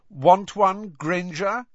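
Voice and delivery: high, loud, mocking schoolboy; sneering offer. A narrator's reading. Malfoy offering Hermione a badge, high loud sneer. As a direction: dangle it at her with a sneer. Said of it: "said Malfoy".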